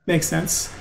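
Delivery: normal talking voice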